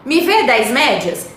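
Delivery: slow, casual bakery order; slowly acting a local bakery request. Shown as a demonstration. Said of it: "a gente chega na padaria e fala assim".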